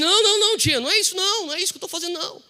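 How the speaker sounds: negação aguda e alta, aflita. Retold or imitated. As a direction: nega depressa, voz bem mais aguda e alta. Ele nega nervoso à tia. (sobrinho se defende da tia, negação aguda e aflita)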